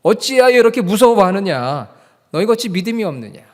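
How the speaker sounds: high, forceful reproachful question; Jesus. Acted. Jesus speaks to his frightened disciples, forceful reproach. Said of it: "제자들에게 예수님께서 그렇게 말씀하신 거".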